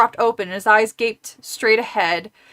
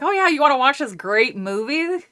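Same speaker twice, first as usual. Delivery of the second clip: fake innocent; 4 semitones higher than usual. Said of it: "You're like".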